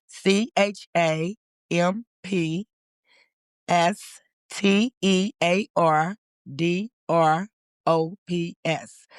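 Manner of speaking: slow, letter by letter; slow, careful spelling of the organization's name. Shown as a demonstration. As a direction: spell each letter slowly and clearly.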